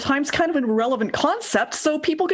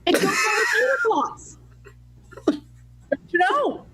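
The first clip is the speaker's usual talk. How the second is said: put-on Minnesotan accent; 8 semitones higher, slower than usual. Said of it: "some Minnesotan".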